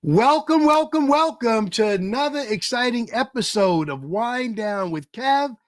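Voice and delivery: big, loud, high showman welcome; loud opening welcome, slowing down on the show name; hype announcer intro. Acted. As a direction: pump up the crowd like a game-show host. Host opens the show hyped.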